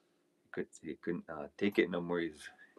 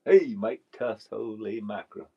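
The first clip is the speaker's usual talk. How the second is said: loud, high, drawn-out hey; surprised greeting; 4 semitones higher, 11 dB louder, slower than usual. Real, not acted. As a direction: hail a viewer with happy surprise. Surprised greeting to arriving viewer.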